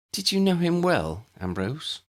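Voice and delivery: coaxing. A narrator's reading. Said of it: "Hermione coaxed".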